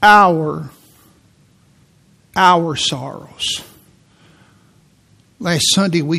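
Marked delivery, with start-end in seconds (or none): 0.0-3.6 Our hit loud, then our sorrows drawn out slowly; stress on our. Shown as a demonstration. Preacher stressing Our sorrows to the church, slow emphasis. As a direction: punch Our, repeat it, then slow right down. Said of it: "I keep emphasizing the word".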